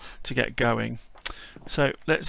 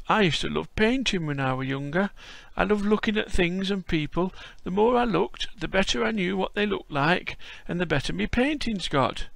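put-on old Yorkshire grandad greeting a visitor; frail old Yorkshireman; 5 semitones higher than usual. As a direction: play a creaky old Yorkshire lad-caller. Voicing old Yorkshire Bob.

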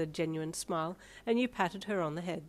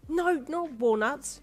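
high, loud, drawn-out correction; chiding; 8 semitones higher, 6 dB louder, slower than usual. A narrator's reading. Mother correcting Darby's wrong word, chiding. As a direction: chide with exasperated emphasis. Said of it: "you chided".

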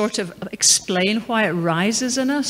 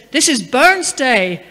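emphatic retold declaration; 4 semitones higher, 8 dB louder, slower than usual. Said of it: "He said".

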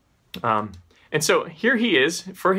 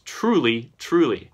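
TRULY said twice, each a separate falling beat; doubly emphatic; 2 semitones lower than usual. Retold or imitated. Preacher quoting Jesus' very strong response, doubly emphatic on TRULY. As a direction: land firmly on each TRULY. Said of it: "it's emphatic".

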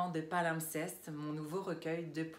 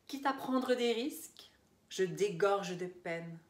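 emphatic, declaimed verse with deliberate pauses; pointed spoken-word poem delivery; poetry recital; 2 semitones higher than usual. Acted. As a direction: declaim each line firmly, easing off on the last. Reads second poem aloud.

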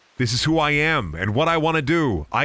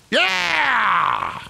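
excited yell; 10 semitones higher than usual. Retold or imitated. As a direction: whoop like you just got invited. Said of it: "You know what my reaction is?".

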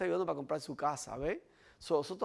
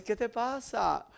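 friend asking; 6 semitones higher, slower than usual. Pretend. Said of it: "y vas a decir".

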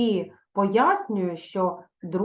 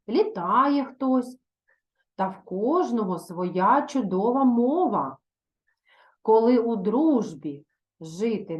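poem reading. Acted. Teacher reciting a poem to her class, measured and expressive. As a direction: read the verse expressively to pupils.

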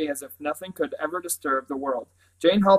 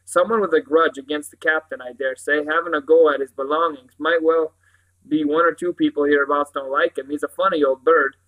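louder, chatty sergeant's voice; police sergeant, confiding; 6 dB louder than usual. Acted. Sergeant speculates on the culprit to the Professor, confiding.

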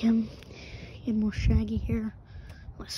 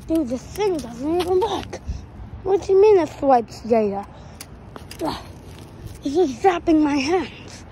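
higher, exasperated griping at a faulty gadget; exasperated complaint; 4 semitones higher, 4 dB louder than usual. Acted. Grumbling to himself as the gadget zaps his hands, exasperated. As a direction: complain in rising frustration.

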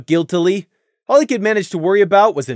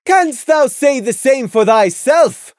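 high, loud royal demand; stern princess demanding an answer; 9 semitones higher, 6 dB louder, slower than usual. A narrator's reading. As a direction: press him for the truth. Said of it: "she demanded".

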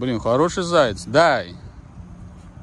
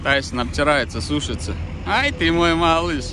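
talking to a dog; 3 semitones higher than usual. Real, not acted. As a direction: cheer the dog on gently. Praising dog.

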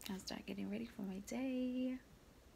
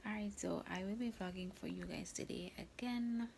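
whispering. Real, not acted. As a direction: whisper it to the camera. Whispers all through the vlog.

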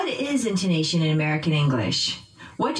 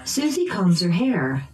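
"Susie" and "hair" stressed by pitch; noun stress. Shown as a demonstration. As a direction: drill model, peaks on "Susie" and "hair". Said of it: "using pitch change".

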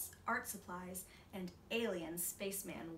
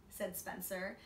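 ordinary delivery

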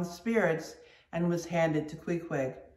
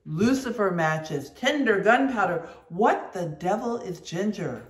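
loud, fast, scornful harangue; mate scolding the steward over the ginger; scornful tirade; 3 semitones higher, 4 dB louder than usual. Acted. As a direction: dress down the steward. Stubb berating the steward.

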